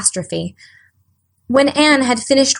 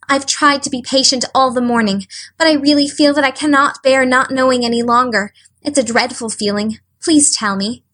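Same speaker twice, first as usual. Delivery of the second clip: imploring; 3 semitones higher than usual. Acted. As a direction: beg desperately to be allowed to stay. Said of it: "said in an imploring voice".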